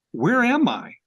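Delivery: a high, loud, baffled "where am I"; bewildered pilot. Retold or imitated. Lost mail pilot asking the young farmer, high and bewildered. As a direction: play the lost airmail pilot, thrown and confused.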